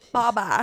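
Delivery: put-on "Baba" as a small child says it; Poppy's pronunciation. Mom quoting daughter, child's accent on "Baba". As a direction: lightly imitate a little one saying "Baba". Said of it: "and she goes".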